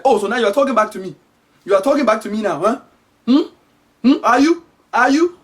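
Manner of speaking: lightly hammed-up mom interrogation; accusing African mother. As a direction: press for an answer like an offended mother. Acted mother accuses child of backtalk.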